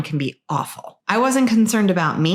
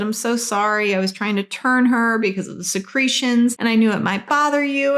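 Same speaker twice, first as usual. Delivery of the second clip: tearful apology; 5 semitones higher than usual. Retold or imitated. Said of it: "I was crying and I said".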